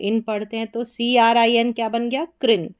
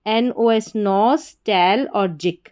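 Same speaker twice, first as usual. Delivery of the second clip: slow syllable-by-syllable नॉस टेल जिक; broken into parts; slower than usual. Shown as a demonstration. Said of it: "तीन parts में divide किया". (टुकड़ों में धीरे उच्चारण)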